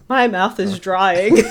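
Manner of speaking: slow, loud, breaking into laughter; hammed-up complaint dissolving into laughs; laughing mock complaint. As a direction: drag out the complaint while cracking up. Retold judges, cracking up.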